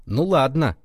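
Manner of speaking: mock vengeful, drawn out at the end; vindictive. Boy mimics rival guide withholding a warning, vindictively. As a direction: imitate a spiteful rival, savouring the last words. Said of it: "А она так мстительно".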